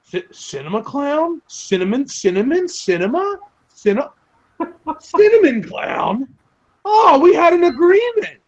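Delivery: put-on high, slurred drunk stumbling over the name; high, halting drunk voice, laughing; imitating drunk friend. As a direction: play a befuddled drunk remembering too late. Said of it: "he goes".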